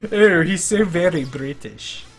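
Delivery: slow, badly faked British accent; horrible British accent. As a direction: draw it out in a hammy British accent. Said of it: "That was a horrible accent".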